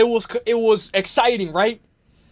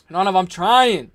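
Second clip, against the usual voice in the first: ordinary talk, nothing marked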